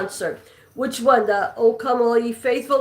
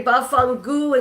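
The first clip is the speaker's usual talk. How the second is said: Italian slang. Shown as a demonstration. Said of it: "Can you speak some Italian".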